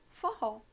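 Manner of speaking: forró with the stress on the final open ó; forró as in the dance; forró with accent. Shown as a demonstration. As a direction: push the stress to the end of forró. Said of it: "Viram como são palavras completamente diferentes".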